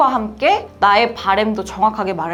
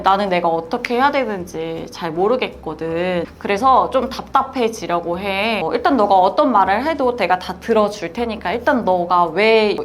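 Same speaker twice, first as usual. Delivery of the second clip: calm reassuring tone. Shown as a demonstration. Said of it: "이런 식으로".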